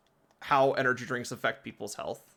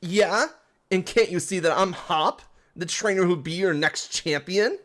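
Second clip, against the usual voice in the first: put-on higher, louder boastful British accent; 5 semitones higher, 4 dB louder than usual. Hop boasting to the grunts, cocky British accent. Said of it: "It's English, but with an accent".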